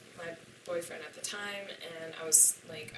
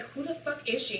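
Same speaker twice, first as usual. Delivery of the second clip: angry outburst; 7 semitones higher, 4 dB louder than usual. Retold or imitated. Confronting him in a retold argument.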